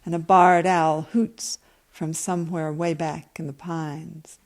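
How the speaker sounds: calm, even reading of a story; story narration. A narrator's reading. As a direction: read it like an author at a reading. Reads her story aloud.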